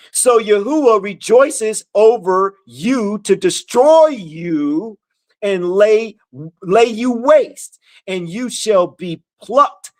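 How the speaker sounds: measured, emphatic verse reading; scripture reading. Acted. Teacher reading verses to followers, emphatic scripture reading. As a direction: read it out deliberately, phrase by phrase.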